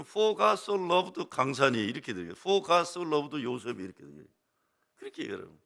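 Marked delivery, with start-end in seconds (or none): 0.0-4.3 excited verse demo. Shown as a demonstration. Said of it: "신나서 얘기를 해요".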